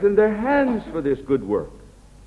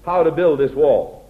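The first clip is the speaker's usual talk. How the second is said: boastful take-charge. Pretend. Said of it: "a man of God doesn't talk like that".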